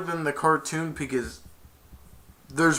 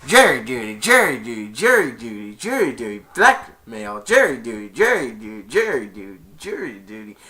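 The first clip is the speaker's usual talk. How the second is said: Grinch impression; 5 dB louder than usual. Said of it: "I'm trying to do an impression of him".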